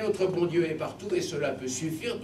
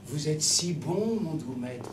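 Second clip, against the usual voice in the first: soft, slow cajoling; wheedling; 3 dB quieter, slower than usual. Acted. Soul flattering Saint Peter, soft wheedling. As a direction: coax the saint sweetly. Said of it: "en faisant le câlin".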